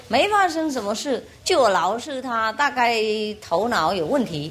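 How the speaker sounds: lightly voiced child, offhand; child's voice. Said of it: "那小孩就说".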